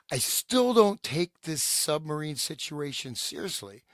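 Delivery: measured, deliberate document reading; reading a letter aloud. Acted. Co-host reads an old letter to the panel, read-aloud delivery. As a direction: read it out clearly for listeners.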